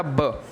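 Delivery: ब as a short "buh"; letter sound. Shown as a demonstration. Teacher showing a child B's sound, ब as "buh". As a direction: sound out ब, not the letter name. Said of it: "बी का sound होता है".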